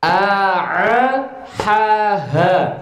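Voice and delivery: "A, A" with a clean glottal start, then "ha, ha" breathed out; hamzah and ha contrast. Shown as a demonstration. Teacher warning the student the sounds differ, clear contrast. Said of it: "Awas, beda loh".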